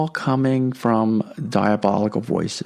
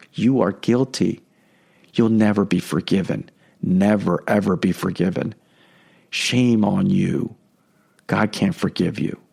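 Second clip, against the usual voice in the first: shaming diabolical voice; 5 semitones lower than usual. Retold or imitated. The devil's voice condemning a sinner, low and shaming. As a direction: pile guilt on the listener, low and heavy. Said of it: "Diabolical voices make us shameful and guilt-ridden".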